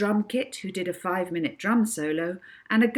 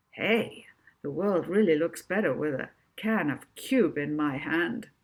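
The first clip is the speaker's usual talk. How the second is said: bright, upbeat advert hero line; cheesy ad hero. Acted. Molly echoing the hero of the cube ad, chirpy advert voice. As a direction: sell the can like a grinning ad star. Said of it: "echoed the thoughts of the hero of the ad".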